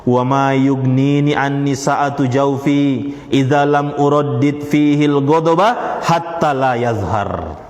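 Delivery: very slow, drawn-out recited Arabic; measured classical recitation. Retold or imitated. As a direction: intone each word slowly. Slow Arabic recitation of son's reply.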